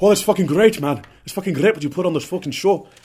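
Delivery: put-on loud, high-pitched, belted Irish accent. Imagining what Conor McGregor would say about the show, in a Conor McGregor impression. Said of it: "Conor McGregor himself would be like".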